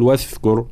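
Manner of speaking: "واذكر" with ذ turned into th as in "thin"; wrong voiceless dhal. Shown as a demonstration. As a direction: show the mistake: say "واذكر" as wathkur. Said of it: "ولا نقول".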